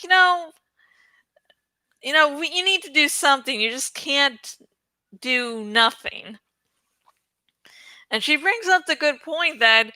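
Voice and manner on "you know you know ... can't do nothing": lightly voiced urging dragon; voicing Saphira. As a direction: urge him on, higher and quick. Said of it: "And Saphira's like".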